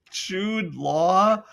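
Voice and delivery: high, laughing "Jude Law?"; can't believe the casting, laughing it out; laughing disbelief. Real, not acted. Incredulous at casting news.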